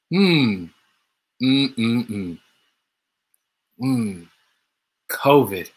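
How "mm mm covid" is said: normal talking voice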